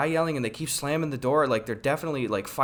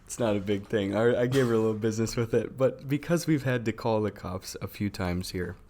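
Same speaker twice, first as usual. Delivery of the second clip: hushed, softer confiding voice; 5 semitones lower, 6 dB quieter than usual. Real, not acted. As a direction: lower your voice like sharing a secret. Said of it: "I love how you're whispering".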